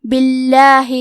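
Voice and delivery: باللہ with a light, thin lam. Shown as a demonstration. Teacher shows students a thin lam in باللہ. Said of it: "حرف اللام کو پتلی آواز میں پڑھنا ہے".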